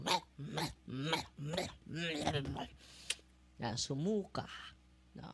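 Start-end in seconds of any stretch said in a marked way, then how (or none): 0.0-2.7 mock cry. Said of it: "Kaya nga sumigaw".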